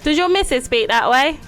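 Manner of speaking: teasing put-on Cockney; Cockney accent. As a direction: needle the posh man in Cockney.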